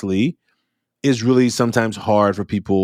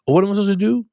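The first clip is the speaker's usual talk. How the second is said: much higher, whiny student plea; student caught stuck, high and pleading; flustered student; 10 semitones higher, much faster than usual. Retold or imitated. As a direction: play a lost kid pleading. Student voiced asking for help.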